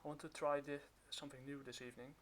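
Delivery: muffled behind a mask; talking through a cloth mask; through a face mask. Real, not acted. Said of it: "I'm kind of wearing a mask right now".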